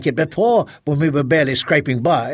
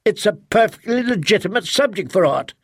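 heated defense; 4 semitones higher than usual. Acted. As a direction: argue back, exasperated. Husband defends book, insults wife.

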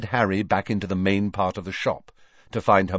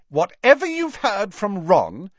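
composed, deliberate rebuttal, pitched up; calm; 11 semitones higher, 3 dB louder than usual. A narrator's reading. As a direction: deny it coolly, spacing the final words. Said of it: "said Ginny calmly".

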